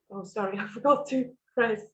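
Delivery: ordinary delivery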